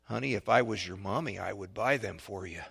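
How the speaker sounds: lightly voiced kind lady; kind lady's voice. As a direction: gently reassure a lost child, softening at the end. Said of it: "this kind lady's voice said".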